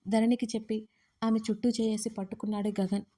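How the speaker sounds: usual speaking voice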